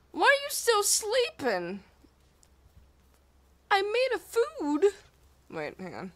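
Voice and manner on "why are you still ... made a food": indignant scolding. Acted. Scolding pal, loud and high.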